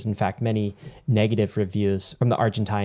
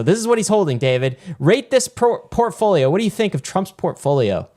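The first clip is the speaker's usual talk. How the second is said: playful; 8 semitones higher than usual. Real, not acted. Teasing co-host to rate portfolio.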